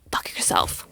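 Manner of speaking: slow, hushed, venomous whisper; whispered go fuck yourself. Retold or imitated. Telling the lying guy off, in a slow cold whisper. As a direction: breathe it out slowly, no voice.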